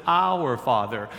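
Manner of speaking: "Our" leaned on again, slow; slow, weighted "Our Father"; stress on our. Shown as a demonstration. Pastor repeating "Our" for emphasis to the listeners. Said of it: "he says".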